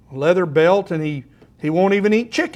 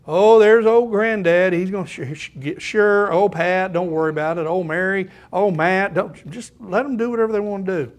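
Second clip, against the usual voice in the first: indulgent grandfather. Retold or imitated. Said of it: "God is not like Pastor Mike, the grandson, grandfather".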